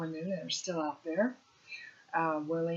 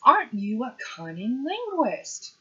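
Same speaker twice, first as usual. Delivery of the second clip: teasing professor; 6 semitones higher, 5 dB louder than usual. Retold or imitated. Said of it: "he says".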